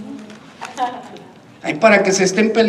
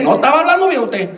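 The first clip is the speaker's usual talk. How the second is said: quick, high-pitched comeback; mock-indignant, raised pitch; retold mock retort; 6 semitones higher, faster than usual. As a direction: throw the protest back, teasing and hammed up. Pastor's retold comeback to the man.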